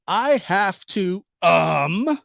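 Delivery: slow drawn-out reading of "I have to"; quoting her slowly. Retold or imitated. Vlogger slowly reads her statement aloud, drawn out. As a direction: drag each word out as if reading her transcript.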